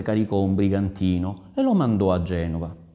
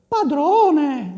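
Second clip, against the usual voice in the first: very high, loud lady's voice; Caterina's reply; 5 dB louder than usual. Acted. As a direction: answer in a raised, high-pitched lady voice. Caterina answers the ambassador. (voce di dama, acutissima)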